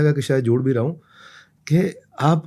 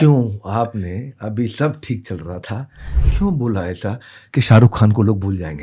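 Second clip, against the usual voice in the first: mock reproach; 4 semitones lower than usual. Interviewer teasing guest for a viral reel, mock reproach. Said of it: "real genuine viral reel निकालनी है".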